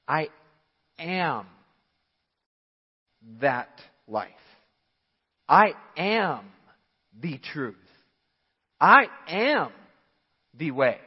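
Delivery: booming I AM, rising loud; proclaimed. Acted. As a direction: proclaim each I am with force. Preacher proclaims Jesus' words.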